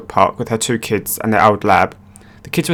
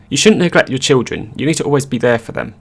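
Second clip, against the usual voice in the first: smug; 2 semitones higher than usual. Retold or imitated. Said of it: "Im says in a smug voice".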